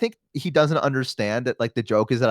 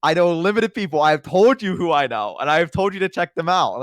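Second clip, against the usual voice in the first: exasperated; 4 semitones higher than usual. Retold or imitated. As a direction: insist like you've explained it many times. Acting out exasperation with roommate.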